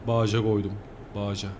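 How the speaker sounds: "Bağışa" said as baaja, g swallowed; swallowed-letter dialect. Shown as a demonstration. Driver imitating a regional dialect, "Bağışa" as baaja. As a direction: lose the g in "Bağışa", long a then ja. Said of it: "Bazı harfleri yutarlar ya".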